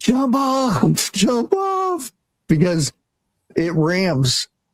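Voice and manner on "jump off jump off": very high shout, stretched way out. Speaker recounting a sled heading toward a fence, retelling a yell. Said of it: "I'm yelling".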